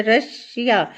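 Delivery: "रशिया" in two parts, रश - या; split into syllables. Shown as a demonstration. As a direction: pause inside "रशिया" after रश. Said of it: "रशिया के भी two parts हैं". ("रशिया" दो हिस्सों में तोड़ कर)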